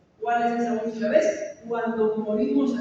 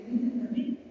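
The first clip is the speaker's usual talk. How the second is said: bold claim; 6 dB quieter than usual. Retold or imitated. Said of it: "la osadía de decir".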